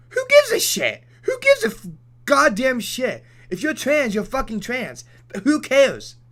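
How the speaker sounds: high, loud, fed-up yelling; exasperated shout. Real, not acted. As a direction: shout it like you've had enough. Exasperated rant about trans people.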